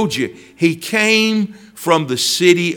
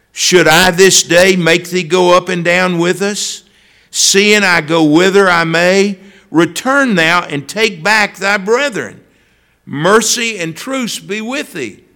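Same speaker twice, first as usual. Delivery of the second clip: scripture reading. Acted. Reads scripture verse.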